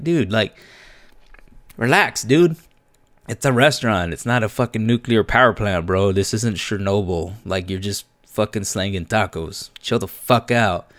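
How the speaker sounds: half-shouted dude, relax; exasperated chill-out rant. Retold or imitated. Telling uptight manager to relax.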